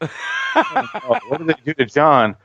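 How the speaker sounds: high, mock-distressed moviegoer; retold dismay. Die Hard fan reliving the PG thirteen discovery, dismayed. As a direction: lament for a ruined hero.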